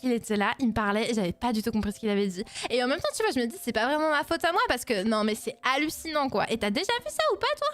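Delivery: hammed-up Parisian girl, pitch swinging up and down; annoying Parisian girl. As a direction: gush gossip like an insufferable French girl. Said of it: "I can do the super annoying, uh, fr-, uh, fr-, French girl Parisian".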